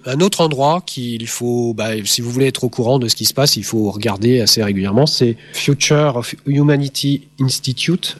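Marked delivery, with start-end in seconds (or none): 5.5-8.2 English name in a French accent; slow English with a French accent. Real, not acted. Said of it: "avec mon super accent anglais".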